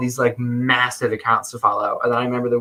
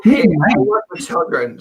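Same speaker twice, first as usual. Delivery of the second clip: playful shout; 3 semitones higher, 4 dB louder than usual. Real, not acted.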